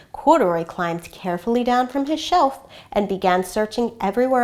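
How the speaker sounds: gentle read-aloud storytelling voice; story narration. A narrator's reading. Reads picture book aloud.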